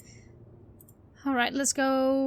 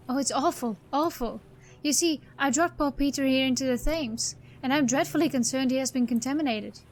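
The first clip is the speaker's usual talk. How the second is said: lightly voiced, dismayed eccentric; fretful muddled eccentric. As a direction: play mild, fussy distress of a muddled oddball. Voices a muddled game character.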